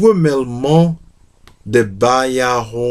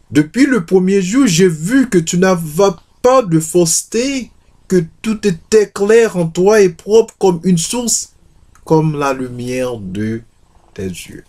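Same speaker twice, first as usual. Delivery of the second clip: higher, earnest lover's voice; eager praise; 6 semitones higher than usual. Acted. Manuel praising Anna with lifted, eager voice. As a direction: pour out the praise, a little lifted.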